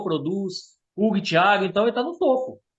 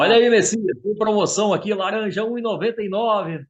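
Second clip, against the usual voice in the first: hard sell ad; 3 semitones higher than usual. Retold or imitated. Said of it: "era locutor de supermercado".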